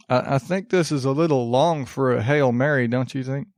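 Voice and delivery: generic country Southern hick voice; Southern hick accent. Acted. Printer questioning the Hail Mary's length, in Southern hick accent. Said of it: "always default to that accent".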